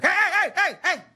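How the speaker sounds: high, rapid-fire mock interruption; scolding dad. Dad walks in on the shouting, high mock scolding. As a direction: cut in like an outraged dad. Dad bursts in to punk him.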